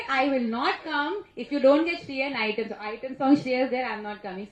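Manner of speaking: firm demo of a demand, easing at the end. Shown as a demonstration. Coaching director to demand her item song, demanding. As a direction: lay down terms like a demanding director. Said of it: "I'm teaching you how to be demanding".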